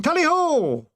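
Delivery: high shouted hunting cry; shouting. A narrator's reading. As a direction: yell it out like a huntsman. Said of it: "we went to sleep shouting".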